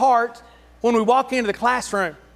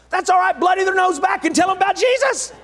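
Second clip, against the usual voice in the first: laughing joke; 7 semitones higher than usual. Acted. Joking aside, laughing.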